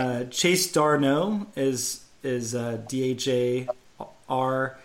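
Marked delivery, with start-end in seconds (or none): 0.2-1.5 "Darno" stressed on the second syllable. Shown as a demonstration. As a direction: say "Darno" slowly as dar-NOH. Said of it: "the stress is on the N O H".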